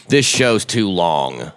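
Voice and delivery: drawn-out mild gripe; complaining. Acted. Giving an example of complaining, mildly whiny. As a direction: stretch it out as a petty complaint. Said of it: "complaining would be like".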